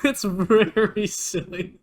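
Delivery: slow, amused emphasis with a laugh. Real, not acted. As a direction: stretch it out while laughing. Laughing repeat, slowed and raised.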